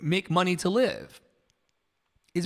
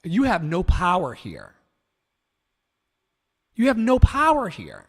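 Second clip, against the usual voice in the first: Glinda the Good Witch; 5 dB louder than usual. Retold or imitated. Quoting The Wizard of Oz to downvoters, lightly theatrical dismissal. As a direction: dismiss them firmly, stronger the second time. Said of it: "like Glinda the Good Witch said".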